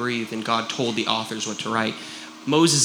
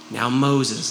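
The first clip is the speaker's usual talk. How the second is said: God dictating; 2 semitones lower than usual. Retold or imitated. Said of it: "And he's listening".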